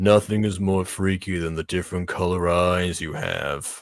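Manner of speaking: low, flat, emotionless, bored monotone meh voice. Doing the meh voice from the movie: Emoji Movie meh voice. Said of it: "I'm doing the meh voice from the Emoji Movie".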